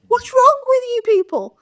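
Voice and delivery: high, loud exasperated cry; exasperated outburst. Real, not acted. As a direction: throw it at them in disbelief. Ranting at TV networks.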